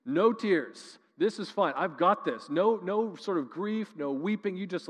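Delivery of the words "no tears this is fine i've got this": a hint of clipped denial, a bit higher and louder; mock stoic. Mourner at a funeral bottling up grief, mock stoic. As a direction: play the tight-lipped mourner holding it all in. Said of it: "Stoic non-emotion".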